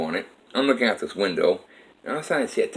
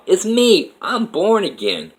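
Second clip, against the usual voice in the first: high-pitched, louder retold announcement; excited revelation; 11 semitones higher, 4 dB louder, slower than usual. Alyssa telling Dave she's born again, excited. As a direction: imitate her excited news, pitched well up.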